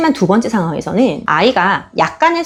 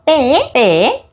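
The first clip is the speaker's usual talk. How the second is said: "빼, 빼"를 아주 천천히 또박또박 반복; 아이가 따라 하도록 "빼"를 천천히 두 번; 5 semitones higher, much slower than usual. Shown as a demonstration. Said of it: "이런 식으로 반복적으로 들려주시면". (아주 느리게 "빼, 빼" 반복)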